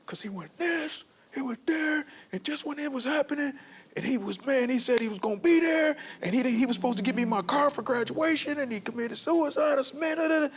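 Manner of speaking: high-pitched venting, rising to a shout at the end; inner emotional outburst. Retold or imitated. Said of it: "I'm like".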